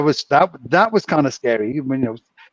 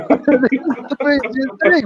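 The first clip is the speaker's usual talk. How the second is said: giddy and amused; 10 semitones higher, slower than usual. Retold or imitated. Stoned crew laughing at chaos.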